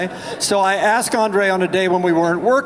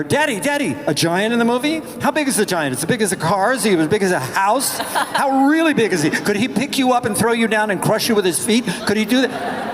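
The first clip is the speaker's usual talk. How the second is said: put-on excited child; 5 semitones higher than usual. Kids quizzing daddy about giant.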